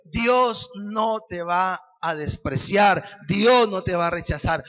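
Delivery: reassuring. Acted. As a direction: lay it down firmly. Slow emphatic assurance.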